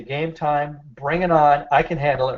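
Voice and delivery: "bring" hit hard, "I" leaned on; stress on bring and I. Shown as a demonstration. Therapist leading the group in the phrase, stressing "bring". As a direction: punch the "bring", then the "I". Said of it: "emphasize the bring".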